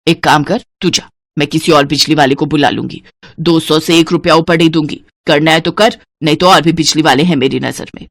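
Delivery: lightly voiced tough older woman; hard-bargaining mother-in-law. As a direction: dismiss the haggler curtly. Santosh refuses to pay more.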